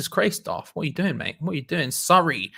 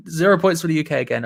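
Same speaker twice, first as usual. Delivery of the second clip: mock Eurovision verdict; 2 semitones higher, faster than usual. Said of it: "It's like Eurovision".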